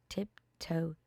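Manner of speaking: soft unvoiced whisper; whispered tiptoe. A narrator's reading. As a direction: breathe the word like sneaking on tiptoe.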